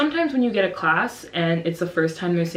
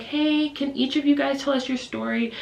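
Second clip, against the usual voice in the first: higher, lightly voiced talk to small kids; gentle teacher; 6 semitones higher than usual. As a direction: invite children kindly to explain. Teacher gently addressing children.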